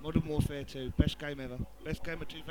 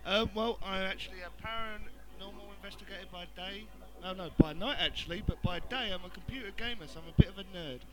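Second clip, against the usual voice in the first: muffled, thin headphone-mic sound; talking through headphones as a mic; headphones used as mic. Real, not acted. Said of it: "I'm actually speaking through headphones and using it as a microphone".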